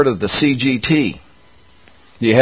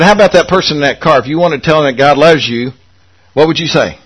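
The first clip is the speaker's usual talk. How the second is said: quick coaching question; faster than usual. Retold or imitated. Preacher retelling quizzing Lisa, brisk question. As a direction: rush the question to her.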